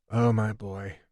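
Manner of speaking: pitying. Acted. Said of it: "he said pityingly".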